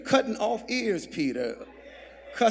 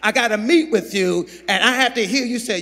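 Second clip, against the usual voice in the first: raised, driving sermon delivery; forceful preaching; 4 semitones higher, 5 dB louder, faster than usual. Real, not acted. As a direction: press the point on the congregation.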